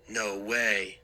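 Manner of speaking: trying to sound tough, voice cracking. Acted. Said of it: "my voice cracked on the words".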